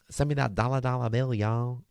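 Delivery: country Texas accent. Shown as a demonstration. Speaker redoes her wish for American listeners, country Texas accent. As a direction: try a rough country Texas twang. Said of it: "A bit of a country Texas accent there".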